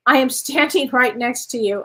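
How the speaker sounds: reads the card line, breaking into a real laugh midway; laughing while reading. Real, not acted. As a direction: let a laugh slip into the middle. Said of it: "Oh, that's hilarious".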